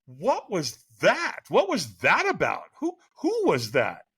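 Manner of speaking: drawn-out mock bafflement; bewildered reaction. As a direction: stretch the words in baffled disbelief.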